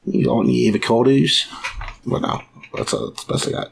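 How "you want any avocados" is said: odd timbre Aussie attempt; Australian accent. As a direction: try an Australian voice. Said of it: "I can't do an Australian accent".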